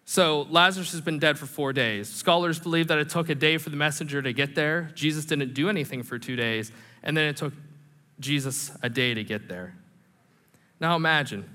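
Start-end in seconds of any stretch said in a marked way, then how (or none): none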